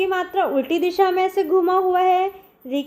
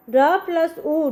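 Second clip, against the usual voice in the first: slow spelling out; slower than usual. Shown as a demonstration. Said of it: "इस प्रकार लगती है".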